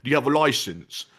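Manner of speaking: officious mock-British complaint; lightly indignant British marmot. Marmot challenging the person filming in public, officious British accent. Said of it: "all of our marmots are British".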